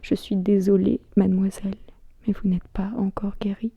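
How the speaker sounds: softly recited, measured echo of another's voice; understated, haunting refrain ticking like a clock; clockwork repetition. Acted. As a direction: repeat it mechanically, trailing down quietly. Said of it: "comme une horloge, me répète inlassablement".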